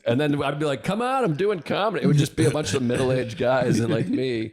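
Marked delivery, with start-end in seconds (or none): 0.8-2.0 mock pleading. Pleading with girlfriend.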